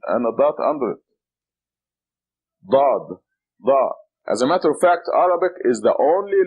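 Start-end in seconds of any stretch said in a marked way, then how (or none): 2.7-3.9 Dad, Da with a thick emphatic D; heavy D. Shown as a demonstration. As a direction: press the D heavy and deep. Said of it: "This is a heavy D".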